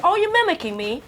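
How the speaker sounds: put-on London accent. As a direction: play it as a practised Londoner's accent. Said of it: "I'll do my accent".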